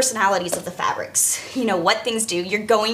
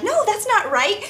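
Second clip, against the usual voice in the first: higher, drawn-out correction; mock objection; 10 semitones higher than usual. Costume shop worker imitating objecting people, mock protest. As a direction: imitate people insisting it's wrong.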